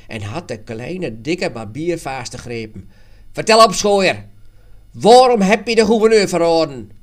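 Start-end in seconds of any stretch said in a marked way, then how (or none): 3.3-6.9 loud, high aggressive shouting; furious interrogator's yell; angry demand. A narrator's reading. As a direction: shout an accusation at a suspect. Jan grabs and interrogates the barber.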